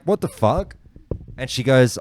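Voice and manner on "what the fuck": up high, half-yelled in disbelief; higher retold outrage. At the pub after the fin hits her face, high shocked outburst. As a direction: throw it out in shock.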